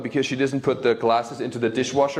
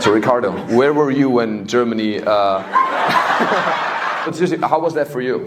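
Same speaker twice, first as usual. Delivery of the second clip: mock scolding; 2 semitones higher, 7 dB louder than usual. Scolding late crowd member.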